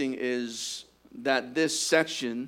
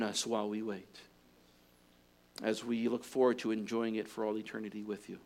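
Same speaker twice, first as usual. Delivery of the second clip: closing prayer. Acted. Pastor praying for the church after the sermon, hushed earnest prayer.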